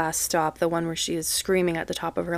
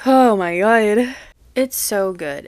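loud, drawn-out oh my God; overwhelmed exclamation; 2 semitones higher, 6 dB louder, slower than usual. Real, not acted. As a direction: let it out slowly, loudly, overwhelmed. Overwhelmed by the song.

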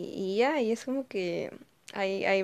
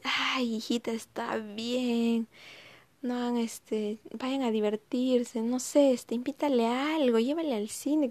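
mamá complaciente; 4 semitones higher, slower than usual. Retold or imitated.

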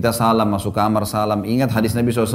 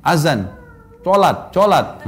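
put-on small child's slow, drawn-out call, only mildly raised; mock child's call; much slower than usual. Toddler telling the taxi driver it's prayer time, mock calling out. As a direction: imitate a toddler calling out, no real shout. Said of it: "dia teriak langsung sama supir taksinya".

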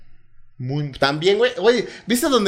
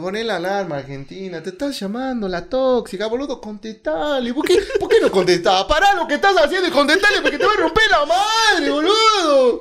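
put-on Argentine accent; 6 semitones higher than usual. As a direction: scold like an Argentine girlfriend, Argentine accent.

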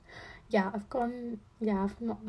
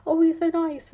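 high, loud cooing; gushing stranger; 8 semitones higher, 10 dB louder than usual. Retold or imitated. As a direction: coo it sweetly. Imitates how people react to her.

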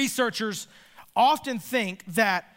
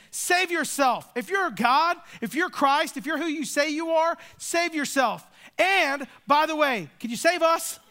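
higher mocking challenge, dripping with sarcasm; sarcastic taunt; 5 semitones higher than usual. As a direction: needle him, higher, like a backhanded insult. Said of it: "So you see the sarcasm".

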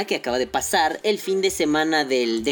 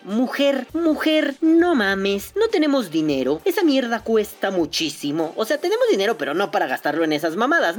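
high, pleading protest to wife; exasperated complaint; 4 semitones higher than usual. Retold or imitated. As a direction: whine that it's too expensive. Discusión actuada con la esposa. (queja exasperada)

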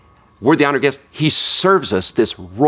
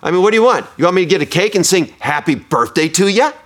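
raised, higher mock gruff voice; imitating a rough man grilling a woman; gruff retold man; 8 semitones higher than usual. Preacher voicing a gruff man mocking a woman at the diner.

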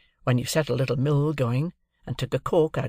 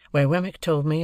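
ordinary delivery, nothing marked

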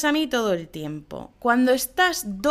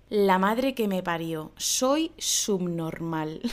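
self-annoyed sigh; 3 semitones lower, slower than usual. Acted. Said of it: "Qué es lo que voy a decir".

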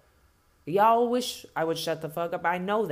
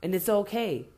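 lower, mock-smug voice, slowing near the end; mocking white voice; 5 semitones lower than usual. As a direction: sneer it as the hypocrite, dragging the last lines. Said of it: "justifiable for whites to fucking act the way they do".

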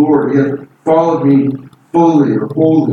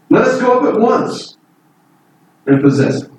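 higher, pushing hard on go; emphatic urging; 7 semitones higher than usual. Retold or imitated. Caleb urging the people to take Canaan, emphatic. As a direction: urge them up the hill now. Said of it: "He was emphatic".

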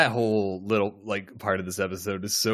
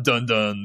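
dramatic sting. Retold or imitated. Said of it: "like, a dun".

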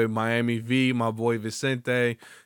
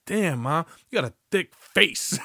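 high, loud cheesy compliment; louder cheesy catcall; mock pickup line; 6 semitones higher, 3 dB louder than usual. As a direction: hit on her with a dumb line.

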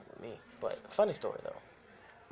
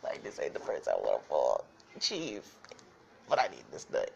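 louder, lower insistence; telling the partner he needs the nut; mock frustrated declaration; 10 semitones lower, 6 dB louder than usual. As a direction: declare it like a man on a mission. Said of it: "be like".

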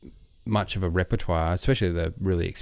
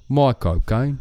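Michael Caine; 4 semitones higher, 3 dB louder, slower than usual. Shown as a demonstration. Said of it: "That was better".

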